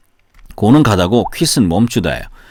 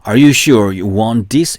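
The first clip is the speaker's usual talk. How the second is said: ordinary delivery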